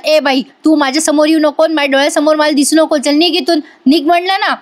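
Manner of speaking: mildly angry order, pitch climbing at the end; retold angry dismissal. Mother-in-law orders Aishwarya out of the house, mildly angry. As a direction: act out a stern telling-off, lightly.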